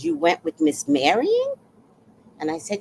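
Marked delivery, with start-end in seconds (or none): 0.0-1.5 high-pitched disbelieving question, retold; incredulous echo. Retelling Richard's reaction to the outing, incredulous. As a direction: repeat it back as an astonished question.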